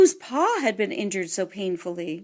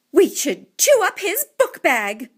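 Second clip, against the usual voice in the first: higher, louder eager mouse mom; mother mouse voice; 8 semitones higher, 5 dB louder than usual. A narrator's reading. Mother mouse pitching an idea to the family, eager and raised. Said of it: "suggested Mamma Mouse".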